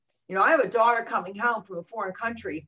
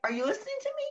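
a pitched-up, lightly voiced cry of frustration; exasperated plea; 4 dB quieter, much faster than usual. Parent ignored by everyone, pitched-up exasperated plea. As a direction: plead to be heard, voice jumping up.

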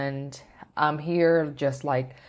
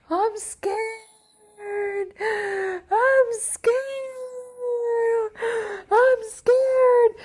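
very high drawn-out wail, building louder; imitated crying scream; 4 dB louder, much slower than usual. Showing how they screamed at the ceremony, re-enacted crying scream. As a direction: act out a terrified, sobbing shriek. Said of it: "I'm crying, screaming".

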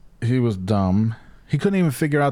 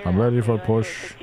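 mock-official pilot readiness call; official pilot radio-speak. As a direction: lightly imitate a formal pilot on radio. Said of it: "He's, like, all official and shit".

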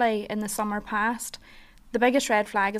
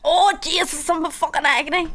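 worn-out partner; 7 semitones higher, 5 dB louder than usual. Retold or imitated. Imitating a worn-out partner coming home.

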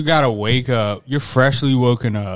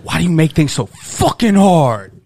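raised voice scolding the cat; exasperated yell at the pet; mock angry outburst; 6 semitones higher, 7 dB louder than usual. Owner scolding his cat out of anger, mock yell. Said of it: "I was like".

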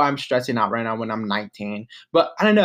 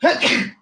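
sneezing; 12 semitones higher, 4 dB louder than usual. Real, not acted. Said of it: "hold on, I need to sneeze".

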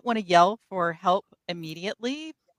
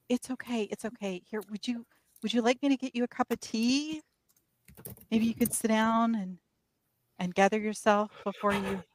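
soft soothing murmur, much quieter; comforting; 7 dB quieter than usual. Acted. Mercy soothing the weeping Nettie, soft and tender. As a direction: hush her gently like a friend.

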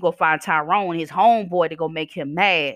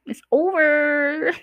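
drawn-out high "it's over"; 10 semitones higher, much slower than usual. Real, not acted. Telling exes to drop it, drawn out high.

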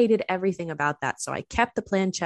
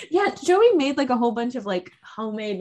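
laughing; 7 semitones higher, 5 dB louder than usual. Real, not acted. Laughing excitedly.

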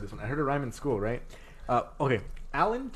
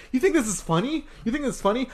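put-on high, indignant old-lady scolding; yelling old teacher; 10 semitones higher than usual. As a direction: imitate an outraged teacher demanding answers. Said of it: "imagine an old lady yelling".

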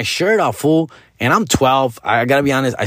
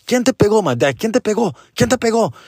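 concerned mom; 8 semitones higher than usual. Retold or imitated. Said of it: "she was also concerned, like".

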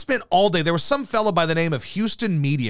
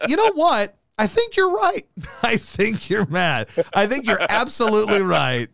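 mock agreement. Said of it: "And I'm like".

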